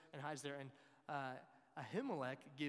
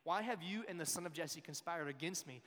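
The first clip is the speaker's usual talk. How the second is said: louder, mildly angry accusation; demanding; 3 semitones higher, 6 dB louder than usual. Acted. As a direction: demand an answer like an affronted king. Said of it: "Saul demanded".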